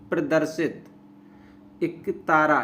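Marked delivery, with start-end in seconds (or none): 1.8-2.6 एक तारा joined as इकतारा; short इ opens एक तारा; correct pronunciation. Shown as a demonstration. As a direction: say इक-तारा as one word. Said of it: "एक तारा नहीं".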